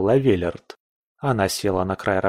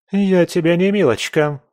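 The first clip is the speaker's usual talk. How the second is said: much higher, louder furious retort; exploding in anger; 7 semitones higher, 4 dB louder than usual. A narrator's reading. Pamela explodes at Ronald, much higher and louder. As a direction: snap back hard. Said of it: "взорвалась Памела".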